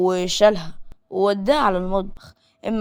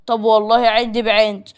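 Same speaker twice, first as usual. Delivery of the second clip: defiant anger; 5 dB louder than usual. Acted. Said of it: "بص لها بعصبية وقال لها".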